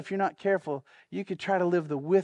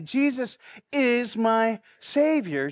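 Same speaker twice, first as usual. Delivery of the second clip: slow testimony; 3 semitones higher, slower than usual. Shown as a demonstration. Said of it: "would you just say it out loud".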